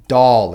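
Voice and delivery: Cockney accent, "doll" said slowly as "dow"; Cockney demo, end "doll" in an ow sound. Shown as a demonstration. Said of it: "replaced with an ow sound".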